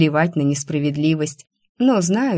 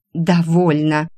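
a touch louder, irritated cut-off; irritated outburst; 4 dB louder, slower than usual. Acted. Alisa cuts off her rival, mildly irritated. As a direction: snap to shut her up, mildly. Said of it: "раздражённо взвилась Алиса".

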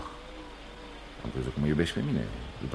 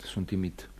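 whisper; 7 dB quieter, slower than usual. Acted. Joe confesses shyness.

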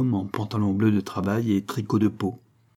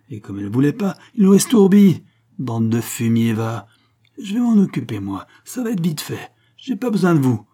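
much louder and higher, raging threats; furious imprecation; 5 semitones higher, 6 dB louder than usual. Acted. Father to police and magistrates, furious shouting. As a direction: explode at the neighbours' names. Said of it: "explosa en imprécation".

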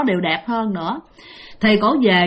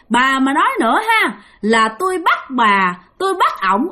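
high, loud threatening ghost voice; a possessed daughter threatening her mother, high and loud; menacing ghost; 6 semitones higher, 3 dB louder than usual. Acted. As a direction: snarl it like a vengeful spirit. Ghost daughter turns horrifying, threatens.

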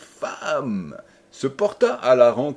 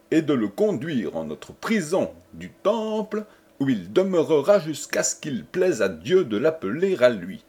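stately, measured edict; royal decree reading; 4 semitones higher than usual. Acted. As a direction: read out a formal royal order. Reads a royal decree aloud.

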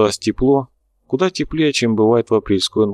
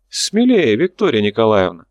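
encouraging call. Acted. Character urges Nika on.

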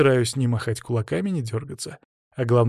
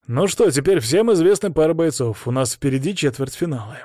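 raised, projected host announcement; lifted public-address delivery; announcing; 4 semitones higher, 4 dB louder than usual. A narrator's reading. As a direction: announce the bouts to all the fighters. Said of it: "объявил Паша".

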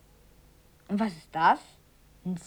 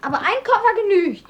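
eifrig; 8 semitones higher, 5 dB louder, faster than usual. Acted. Kalle trumpft eifrig auf.

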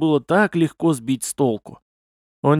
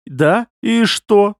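slow, higher, curious question; interested; 7 semitones higher, 4 dB louder, much slower than usual. A narrator's reading. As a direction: draw it out with rising curiosity. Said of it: "с интересом спросил он меня". (с интересом)

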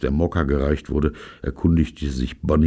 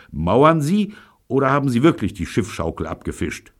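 higher-pitched menacing question; threatening; 9 semitones higher than usual. A narrator's reading. Host interrogating the gangster about the theft, threatening. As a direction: press him with a threat. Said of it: "sagte er drohend".

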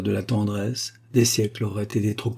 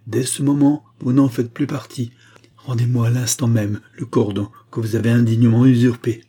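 royal indignation; 5 dB louder than usual. Acted. Queen's cold indignation.

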